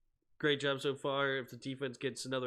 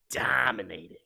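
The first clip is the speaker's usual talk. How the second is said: a breathy whispered "Dominating."; whispering; 4 semitones lower, 5 dB louder than usual. Shown as a demonstration. Repeats call as whisper.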